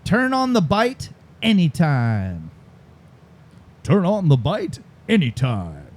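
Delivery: slow, deliberate slogan; drawn-out commercial tagline; tagline read-out. Shown as a demonstration. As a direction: announce it like an ad line. Host reads out quiz tagline.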